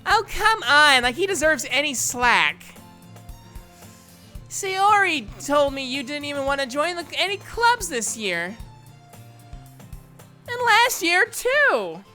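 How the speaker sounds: lively, huffy objection; indignant complaint. Acted. Character's scornful complaint about newcomer.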